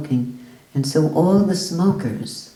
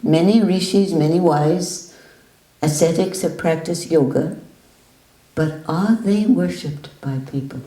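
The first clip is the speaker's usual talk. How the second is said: emphatic teaching; 2 semitones higher than usual. Retold or imitated. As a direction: drive the point home.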